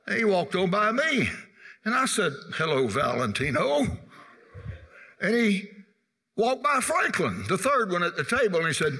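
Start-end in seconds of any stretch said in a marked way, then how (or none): 2.5-4.0 low, rising lilt on the name; teasing greeting. Retold or imitated. Second boy greeting the passing classmate, teasing. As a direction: mimic a schoolboy's mocking hello.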